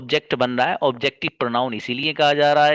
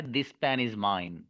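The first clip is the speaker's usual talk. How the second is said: slow model sentence; 3 semitones lower, 7 dB quieter, much slower than usual. Shown as a demonstration. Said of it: "तो ये कलम मेरा है".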